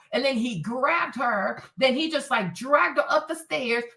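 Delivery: usual speaking voice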